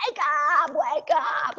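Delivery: hammed-up urgent cry for help; imitated screaming. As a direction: act out terrified disciples yelling to rouse someone. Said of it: "they were screaming at him".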